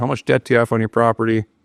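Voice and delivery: mild, easygoing, gentle tone with no edge. Asking Josh how much debt is on his property, in softer tone. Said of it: "With that tone, that softer tone".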